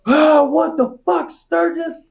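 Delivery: high, slow shocked yell; drill instructor yell. Retold or imitated. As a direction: bark it like a startled drill sergeant. Drill instructor catches him pissing.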